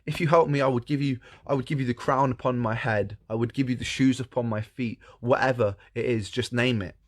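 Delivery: lightly voiced, eager princess; a hint of a desperate princess; pleading princess. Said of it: "And she says".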